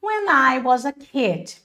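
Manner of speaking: very slow, evenly spaced English; slow model sentence. Shown as a demonstration. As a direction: say it slowly for learners to follow. Teacher models English sentence twice.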